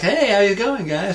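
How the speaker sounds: high, swooping surfer greeting; surfer dude. Retold or imitated. Surfer dudes greet strangers at the lift, breezy. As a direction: hail them like a surfer dude. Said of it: "two proper surfer dudes".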